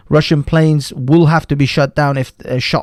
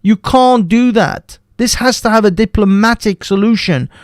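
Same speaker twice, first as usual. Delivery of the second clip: angry insistence; 5 semitones higher than usual. Real, not acted. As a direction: spell out each word in outrage. Ranting against war push.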